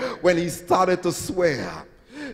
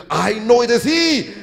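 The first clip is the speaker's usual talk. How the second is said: raised, insistent accusation; calling out; 5 semitones higher than usual. Acted. Another woman identifying Peter, calling out insistently. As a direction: pitch it up, absolutely certain. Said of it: "another woman called".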